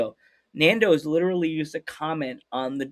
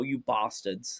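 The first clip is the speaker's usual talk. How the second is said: slow, low British put-on; drawn-out mock British insult; softer, drawling British impression; British accent; 5 semitones lower, 7 dB quieter, much slower than usual. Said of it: "I have a British wrestling friend".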